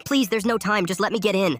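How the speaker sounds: put-on high, pressing panicked girl; panicked plea. A narrator's reading. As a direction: plead in rising panic, pitched high. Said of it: "The girl started to panic".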